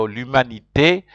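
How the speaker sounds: l'humanité ending in a sounded "tay"; final E pronounced. Shown as a demonstration. French teacher explains accents, l'humanité with its final "tay" sounded. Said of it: "you have to pronounce the E".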